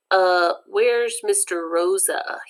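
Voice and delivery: slow, hesitant question; nervous. Acted. Francis asking the scary coach, slow and nervous. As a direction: ask timidly, as if afraid of the answer. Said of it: "he asks nervously".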